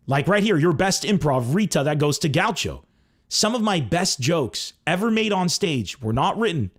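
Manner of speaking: usual speaking voice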